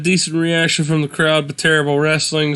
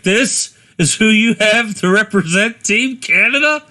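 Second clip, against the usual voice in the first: lightly voiced arrogant wrestler, higher pitch; mock scornful challenger; 6 semitones higher than usual. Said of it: "He's like".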